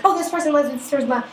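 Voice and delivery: high, mock-dreamy gushing; imitated smitten friend. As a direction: coo it high like a besotted friend. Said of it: "she's like".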